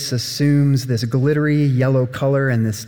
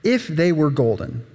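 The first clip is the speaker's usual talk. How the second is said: dreamy wish; 4 semitones higher than usual. Acted. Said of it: "he thinks".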